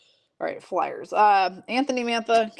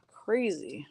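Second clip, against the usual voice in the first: whispered aside; 7 dB quieter than usual. Real, not acted. Remark on neighbour's blowing furniture.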